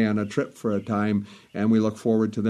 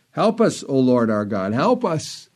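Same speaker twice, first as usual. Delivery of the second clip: crying out to God. Retold or imitated. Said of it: "He cries out to God".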